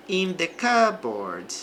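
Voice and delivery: "cupboard" said kubberd, no P, slow; slow "in the cupboard" with P silent. Shown as a demonstration. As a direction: drop the P in "cupboard". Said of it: "Este P aqui, ele desaparece".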